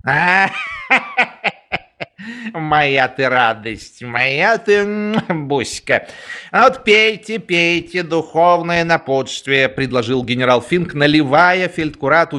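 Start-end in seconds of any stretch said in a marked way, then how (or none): 0.1-9.7 frat bro. Acted.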